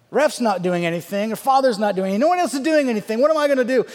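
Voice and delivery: exasperated retold inner rant; building frustration. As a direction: work yourself up line by line.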